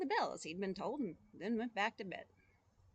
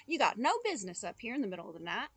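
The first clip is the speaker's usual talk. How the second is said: fast, raised telling-off; shouting boy; 5 dB louder, faster than usual. Acted. Boy scolding the ghost in the tower, fast and raised. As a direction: rush it out, louder. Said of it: "shouted the boy".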